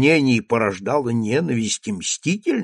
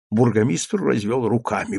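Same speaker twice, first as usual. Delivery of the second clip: ordinary delivery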